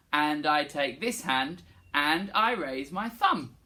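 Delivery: slow, clear spoken line. Shown as a demonstration. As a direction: say it slowly and plainly. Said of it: "Can you say".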